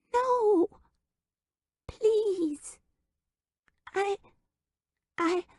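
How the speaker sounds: tiny voice begging to stay; pleading little child. Acted. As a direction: beg like a scared toddler.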